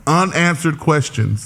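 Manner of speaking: "unanswered questions" said slowly and distinctly; deliberate, drawn-out "unanswered questions"; correct lyric. Shown as a demonstration. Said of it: "is the right lyric".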